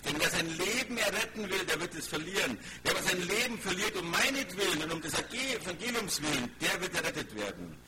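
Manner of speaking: preacher reading scripture aloud with weight. Acted. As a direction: proclaim the verse to a congregation, easing down at the end. Reads scripture aloud to congregation.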